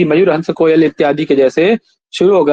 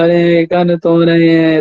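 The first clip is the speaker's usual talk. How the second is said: mock whiny; slower than usual. Shown as a demonstration. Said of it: "ऐसा करके बोलते हैं ना".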